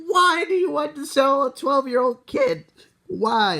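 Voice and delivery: high-pitched, exasperated outcry; indignant protest. Acted. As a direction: protest in high, mock-outraged disbelief. Kid protesting being sold.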